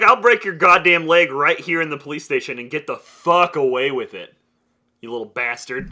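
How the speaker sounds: acted-out threat, forceful at first then dropping; mock tough detective laying into him; retold angry threat. Detective threatening the slapped suspect, retold angry threat.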